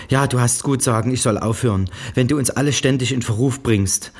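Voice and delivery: höher und lauter, vorwurfsvoll schimpfend; Strafpredigt der Mutter. A narrator's reading. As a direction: halte ihr eine Predigt. (Mutter schimpft Janice am Telefon aus)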